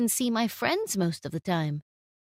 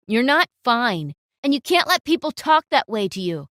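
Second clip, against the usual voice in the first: firm insistence; 5 dB louder than usual. Acted. Boyfriend insists.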